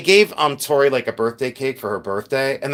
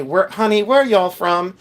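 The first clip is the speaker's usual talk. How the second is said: lightly mimicked Southern accent, higher; a touch of Southern lilt, pitched up; imitated Southerners; 5 semitones higher than usual. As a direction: imitate a Southern "honey, y'all" question. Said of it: "they kept asking me".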